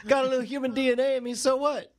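high, offhand little mouse voice; high-voiced mouse bro; talking mouse. Voicing the mouse that refuses to perform.

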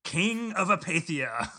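slow, high grand title announcement; mock ring announcer. Crowning an apathetic friend, mock ring announcer. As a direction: proclaim the title slowly to the arena.

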